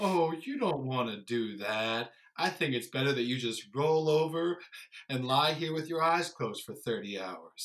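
unhurried, alluring, enticing cat voice drawl. Describing a show's depression character, a slow-talking alluring purple cat. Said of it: "slow-talking, alluring purple cat".

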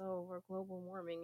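normal talking voice

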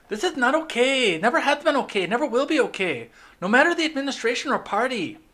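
put-on very high voice, blended Mexican and Puerto Rican accent. Speaker reads out a representative's tweet, as Alexandria Ocasio-Cortez in mixed accent. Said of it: "What accent is that?".

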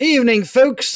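high-pitched, terrible put-on Irish accent. Taking over from Tom and greeting the folks, in a bad Irish accent. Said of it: "That's Irish. That's bad".

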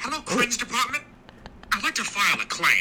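high, swooping character voice. Calling the Cringe Department to file a claim: Family Guy impression. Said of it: "That was simply me doing an impression".

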